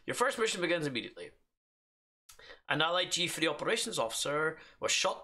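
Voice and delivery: fast, businesslike line reading; brisk professional read. Shown as a demonstration. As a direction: rattle it off like a professional briefing. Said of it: "It's supposed to be professional".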